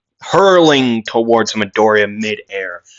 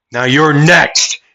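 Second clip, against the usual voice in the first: raised, challenging warning; threat; 4 semitones higher, 4 dB louder than usual. Acted. Midoriya looking up at the next villain, threatening. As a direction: call out the next target.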